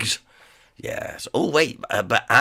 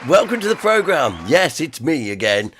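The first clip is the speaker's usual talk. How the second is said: croaky, hoarse sore throat; 3 semitones higher, 3 dB louder than usual. Real, not acted. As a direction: push words through a hoarse throat. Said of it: "You'll already notice my voice".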